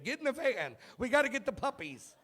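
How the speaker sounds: mock creep calling kids into a minivan; creepy van yell. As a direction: lure them in, hammed-up. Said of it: "in a minivan screaming".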